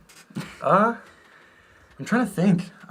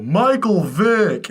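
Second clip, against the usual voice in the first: high, very drawn-out mock holler; sing-out kid's shout, not full volume; retold yell; 7 semitones higher, 4 dB louder, much slower than usual. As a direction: imitate yelling a punchline, stretching it out. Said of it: "and I yell".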